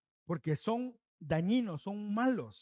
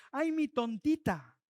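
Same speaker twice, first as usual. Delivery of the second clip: slow, imitated fond teasing; mock affection; 3 semitones higher, slower than usual. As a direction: imitate a father fondly teasing. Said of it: "lo hacemos con cariñito".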